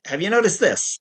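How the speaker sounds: lightly imitated tactful question; gentle and loving. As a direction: nudge kindly, as a therapist would. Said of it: "in a way that was gentle and loving".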